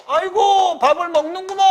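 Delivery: put-on high, exclaiming old-man voice; elder exclamation. Shown as a demonstration. Teacher demonstrating the exclamatory hage ending, high and delighted. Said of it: "그 다음에 이제".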